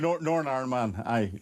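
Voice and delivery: broad Northern Irish pronunciation; Northern Irish accent. Shown as a demonstration. Guest showing the host his home accent, Northern Irish accent. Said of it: "it's a terrible accent".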